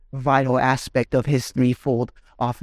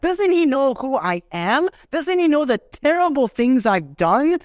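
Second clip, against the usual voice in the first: higher, pleading inner voice of a guilty listener; voicing a doubting believer; 6 semitones higher than usual. Preacher voicing a listener who doubts forgiveness, mildly pleading. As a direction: voice the sinner's anguished doubts, lightly acted. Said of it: "You might be saying".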